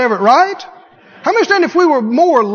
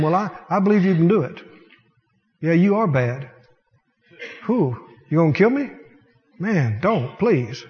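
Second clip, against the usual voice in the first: mock cowering; 4 semitones lower, 4 dB quieter than usual. Mocking timid voice to devil.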